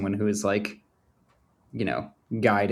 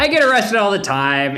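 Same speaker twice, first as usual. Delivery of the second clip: joking exclaim; 11 semitones higher, 6 dB louder than usual. Real, not acted. Player jokes loudly, laughing.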